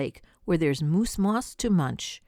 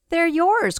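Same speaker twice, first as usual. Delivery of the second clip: high, louder call; a woodpecker calling out, higher and louder; 10 semitones higher, 5 dB louder than usual. Acted. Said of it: "called the woodpecker".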